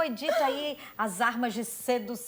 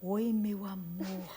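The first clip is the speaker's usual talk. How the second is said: imagined presenter sweet-talk; 3 semitones lower than usual. Retold or imitated. Host imitating the journalist with her boyfriend, mock romantic announcer. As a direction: croon love words like a slow announcer. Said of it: "já pensou Mari ali com o namorado dela?".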